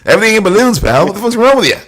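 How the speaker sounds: hammed-up yelling at a toddler; mock angry rant. Mocking a dad chewing out his kid, hammed-up yell.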